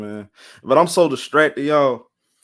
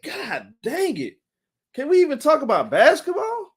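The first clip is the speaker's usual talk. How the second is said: mock despair at too much news, laughing through it; exasperated groan; 11 semitones higher than usual. Streamer recalling being overwhelmed by NBA drama, exasperated and laughing. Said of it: "I'm like".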